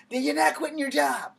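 high and loud, "not" hit hard; loud final verdict. Retold or imitated. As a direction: slam the decision down.

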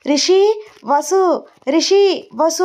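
high, urgent narrated shout; calling out loudly. A narrator's reading. Flustered mother calling Rishi and Vasu, calling out loudly. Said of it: "గట్టిగా అరుస్తుంది".

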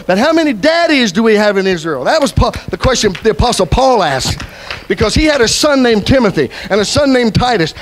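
emphatic, driving sermon delivery; preaching. Real, not acted. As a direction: preach it to the congregation. Preaches at full force.

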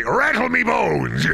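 high, drawn-out skeleton cry. Acted. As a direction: wail it slowly like a cartoon skeleton. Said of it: "in a skeleton voice".

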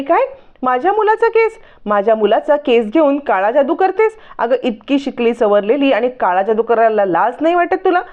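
sharp cry on केस, then scolding; angry mother-in-law. Retold or imitated. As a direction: accuse her, outraged, in a high pitch. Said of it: "Indra चिडते". (रागावलेली सासू, उंच आवाजात)

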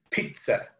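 "pizza" slowly said as PEET-sa; slow "pizza" with a clear t before the s; pronunciation with T sound. Shown as a demonstration. Teacher correcting students, "pizza" with a T sound. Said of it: "la primera Z suena como T".

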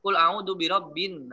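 slow chanted tajwid reading of "Qul a'udzu birabbin", alif lam silent; Quran recitation. Shown as a demonstration.

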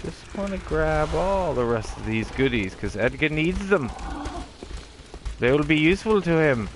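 a touch of a 1950s movie voice; lightly stilted fifties film delivery; stilted old movie melodrama. Acted. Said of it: "That's a nineteen fifties voice".

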